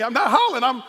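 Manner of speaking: high, loud, fast denial of hollering; protesting loudly. Retold or imitated. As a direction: insist you're not yelling while yelling. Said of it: "You're hollering at me".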